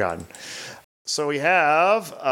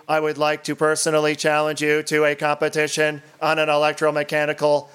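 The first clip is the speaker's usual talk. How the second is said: robot voice. Acted. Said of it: "to be read in an eighties robot voice".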